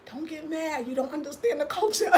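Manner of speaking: imitating a soothing inner voice; calming inner voice. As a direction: talk yourself down quietly. Retold inner voice calming her down.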